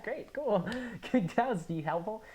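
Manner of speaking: high sarcastic hag voice; sarcastic old hag. Retold or imitated. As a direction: drip sarcasm like a crone. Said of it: "old hag says from the back".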